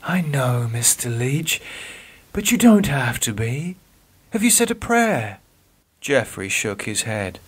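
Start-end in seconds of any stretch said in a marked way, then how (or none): 0.0-5.4 higher, kind voice; gentle nurse. Acted. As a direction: nurse gently asking about prayer. Nurse comforts.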